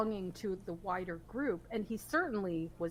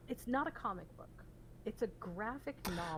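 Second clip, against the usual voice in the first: pedantic correction; 5 dB quieter than usual. Real, not acted. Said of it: "you sound like a nerd".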